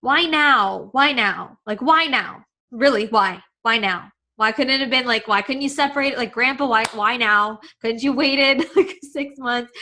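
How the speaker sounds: retold pleading questions, rising at first; pleading why. Grieving daughter retelling her questions about losing dad and grandpa, pleading. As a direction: ask why in mild, insistent protest. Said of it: "I'm like".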